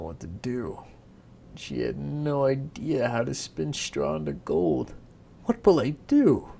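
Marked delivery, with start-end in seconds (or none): 5.4-6.5 loud, higher desperate call. Acted. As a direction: cry out to the empty room. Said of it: "she called out to the air".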